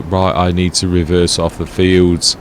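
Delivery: flat robotic worker voice. Retold or imitated. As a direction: talk like a dumb machine. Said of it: "Sorry for the robotic voice".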